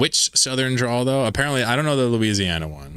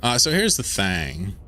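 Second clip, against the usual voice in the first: Southern drawl; slower than usual. Pretend. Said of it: "I have a halfway decent meme version".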